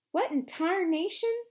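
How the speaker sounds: loud, high burst of surprise; exclaiming. A narrator's reading. Tall man arriving at the hole, exclaiming loud and high. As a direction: blurt it out in shock. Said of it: "the tall man exclaimed".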